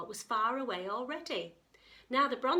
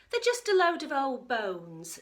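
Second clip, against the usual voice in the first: dismissive; 4 semitones higher, 9 dB louder than usual. Acted. Grandma dismissive.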